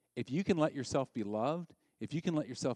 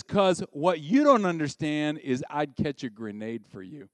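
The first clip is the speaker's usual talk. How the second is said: a louder, mock-heroic vow of devotion; devoted lover; 6 dB louder than usual. Husband swearing he'd catch a grenade for her, mock-dramatic. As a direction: lay it on thick, like a love song. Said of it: "And he says".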